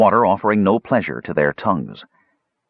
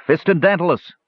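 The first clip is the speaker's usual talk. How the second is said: calling out; 11 semitones higher than usual. Acted. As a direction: call the wizard's name into the dark. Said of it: "Tanis called out".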